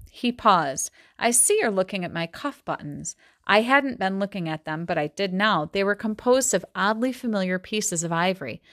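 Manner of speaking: measured novel reading voice; story reading. A narrator's reading. Teacher reading a Gatsby passage aloud, steady storytelling. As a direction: read the passage to the class.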